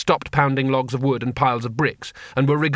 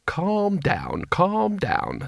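calming; 5 semitones higher, 3 dB quieter, much slower than usual. A narrator's reading. Teacher soothing the alarmed taxman.

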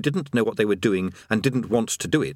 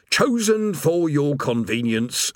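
rumbled; 5 semitones higher, slower than usual. Acted. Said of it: "Urgle Flogger rumbled".

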